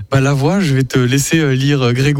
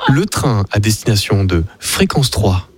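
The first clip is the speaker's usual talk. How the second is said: mock train announcement; 5 semitones lower than usual. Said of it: "je fais l'annonce en français".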